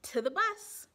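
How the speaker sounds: rally the class to go; eager teacher calling out. Acted. Teacher calls class aboard.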